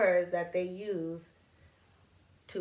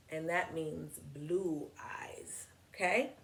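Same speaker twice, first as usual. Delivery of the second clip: whispered aside; 2 semitones lower, 6 dB quieter, slower than usual. Real, not acted. Teacher explaining a word.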